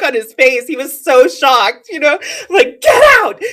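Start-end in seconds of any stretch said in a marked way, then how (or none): 2.8-3.4 high, loud yelled command; retold scream. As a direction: yell at him to leave. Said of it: "and I just started screaming".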